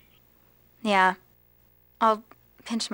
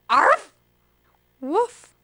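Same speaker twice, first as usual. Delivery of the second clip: tentative bark; 4 semitones higher than usual. Shown as a demonstration. Asked to try the barking.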